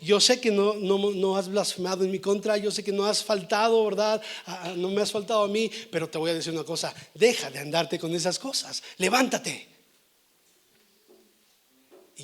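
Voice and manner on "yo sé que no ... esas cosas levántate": lightly voiced God, firm and insistent; concede, then firmly order him up; God rebuking Job. God to Job from the whirlwind, firm rebuke. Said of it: "le está hablando en un torbellino".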